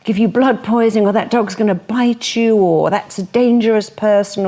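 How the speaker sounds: lightly voiced worried mum; warning mother. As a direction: caution the child like a fretful mother. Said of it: "a child whose mother says".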